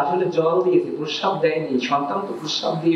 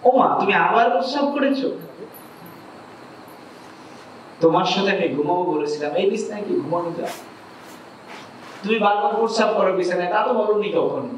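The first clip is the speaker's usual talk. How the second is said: angry son; 4 semitones higher than usual. Acted. Son rebuking his old mother for the wet bed, angry and higher. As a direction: scold her for wetting the bed again. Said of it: "সন্তান আবার রেগে উঠলো".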